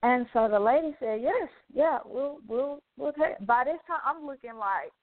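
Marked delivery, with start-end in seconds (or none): 1.2-3.5 retold eager clerk. Clerk agrees to stranger's payment.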